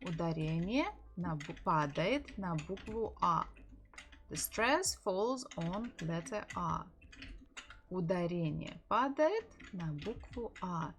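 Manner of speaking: final А stressed in Игра. Shown as a demonstration. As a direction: lean on the last syllable, Игра. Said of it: "So here we stress буква А".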